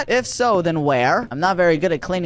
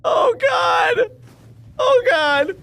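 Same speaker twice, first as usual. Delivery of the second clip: scared horror game streamer; slower than usual. Real, not acted. Jump scare reaction.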